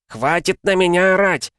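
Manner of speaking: high, loud furious shout; enraged outburst. Acted. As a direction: explode in rage at the officer. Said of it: "взбеленился Червин".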